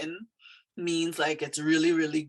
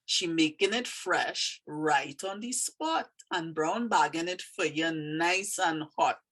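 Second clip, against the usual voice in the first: Trini dialect. Shown as a demonstration. Teacher reading her poem to learners, in Trini dialect. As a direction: read it out in an unhurried Trini dialect. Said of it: "Trini dialect".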